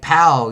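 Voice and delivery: loud, punchy "pow"; fighting-back punch noise. Acted. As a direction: voice a comic-book punch. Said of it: "they fight back like".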